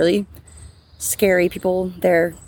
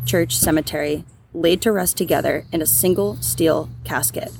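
measured, scripted storytelling read; true-crime narration. A narrator's reading. Host telling listeners about the unsolved barrel case, scripted narration. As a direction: narrate the case in an even, deliberate voice.

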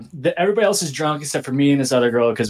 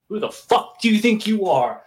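higher, lightly acted indignant demand; mock outrage; 5 semitones higher than usual. Ex confronting him before the slap, mock outrage. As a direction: imitate an ex's angry confrontation.

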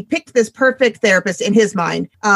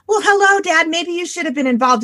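sarcastic jab; 8 semitones higher than usual. Real, not acted.

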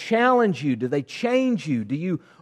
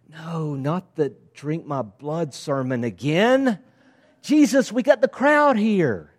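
mock pleading. Disciples like, pleading with Jesus.

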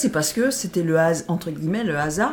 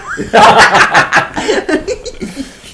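breathy loud laugh; 7 semitones higher, 11 dB louder than usual. Real, not acted. Joking about mouth to mouth.

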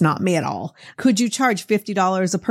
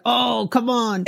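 put-on playful Boston accent; 4 semitones higher, slower than usual. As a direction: toss it off like a Bostonian. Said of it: "my Boston accent was like".

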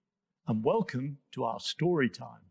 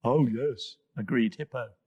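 deep bubbly hippo; 4 semitones lower than usual. Acted. Hippo speaks.

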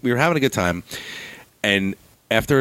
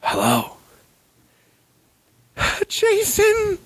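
much higher, sleepy mom voice; mom on the phone; much slower than usual. Retold or imitated. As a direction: play his mother calling at night. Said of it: "My phone rings".

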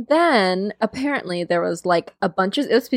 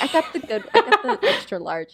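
mock bragging; 4 semitones higher than usual. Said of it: "She's like".

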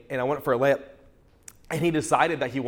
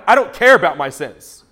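higher, louder, laughing paralyzed man; 7 semitones higher, 8 dB louder than usual. Pretend. The paralyzed man speaking to Jesus, higher, louder and laughing. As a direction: voice his frustration, laughing.

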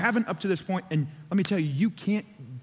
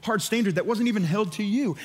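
mildly indignant, quick objection; mock indignation, picking up pace; riled up; 2 semitones higher than usual. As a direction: protest as a riled-up onlooker, lightly acted. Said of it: "They were riled up".

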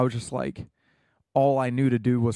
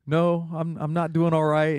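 lightly imitated African accent, pitched up; 4 semitones higher than usual. Recruit admitting to a bunkmate he's struggling, light African accent. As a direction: quote him in a higher voice with a slight African accent. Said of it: "in his, in his accent".

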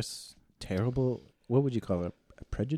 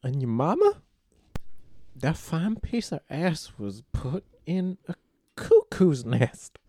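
put-on very old faint voice; 9 semitones higher, 3 dB louder than usual. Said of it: "You sound like that old guy from, uh, Family Guy".

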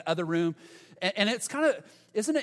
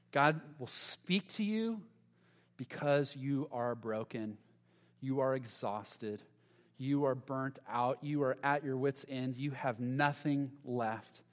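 tender pastoral voice; 2 semitones lower than usual. Real, not acted. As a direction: speak gently to the worn-out listener. Slow tender pastoral address.

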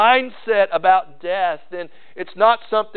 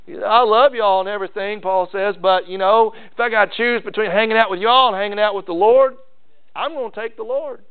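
playful voicing of Paul; 6 semitones higher than usual.

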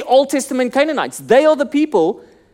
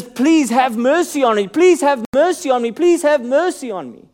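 mild mock wailing; 3 semitones higher than usual. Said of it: "constantly wailing".

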